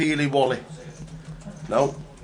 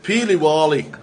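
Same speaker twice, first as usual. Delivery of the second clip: laughing; 3 semitones higher, 6 dB louder than usual. Real, not acted. Laughing while saying word.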